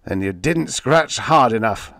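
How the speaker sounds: mock him coldly; sneer. Editor sneering at the writer over the phone. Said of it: "the phone sneered".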